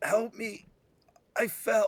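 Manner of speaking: very high, distant-sounding voice crying out in distress. A game master voices someone who fell, calling out for help, distressed voice. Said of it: "with distress in their voice".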